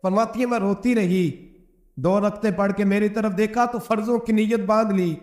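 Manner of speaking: ordinary talk, nothing marked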